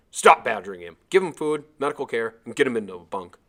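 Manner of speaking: loud commanding bark. Acted. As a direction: snap orders to stop the crowd. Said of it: "one man barked".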